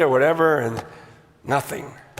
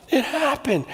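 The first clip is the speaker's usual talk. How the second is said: laughing in disbelief; 4 semitones higher, 4 dB quieter than usual. Real, not acted.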